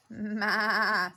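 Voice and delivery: goat bleat. Acted. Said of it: "said Goat".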